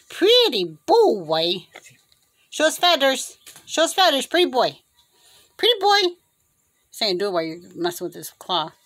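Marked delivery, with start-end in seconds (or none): 0.1-1.7 slow, drawn-out coaxing; coaxing pet talk. Real, not acted. Owner coaxing a bird to show feathers, slow pet talk. 2.5-6.0 high, encouraging bird talk; coaxing pet talk. Real, not acted. Owner asking a bird to show feathers, high coaxing.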